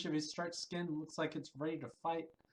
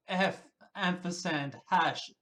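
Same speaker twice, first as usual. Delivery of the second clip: reading swear symbols aloud; 5 dB louder, slower than usual. Shown as a demonstration. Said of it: "uh, sorry".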